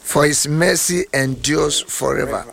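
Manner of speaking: slow, deliberate psalm reading; English scripture reading. Real, not acted. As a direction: read it out phrase by phrase, stretching the key words. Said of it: "English reading".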